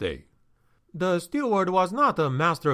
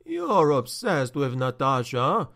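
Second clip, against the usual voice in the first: plain reading voice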